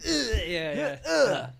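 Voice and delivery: high laughing through words. Real, not acted. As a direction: giggle while explaining. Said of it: "it's like a sneeze".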